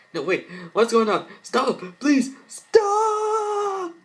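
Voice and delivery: rising high, loud pleading scream; girl dragged into the mirror, screaming; terrified scream. Acted. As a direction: scream for it to stop.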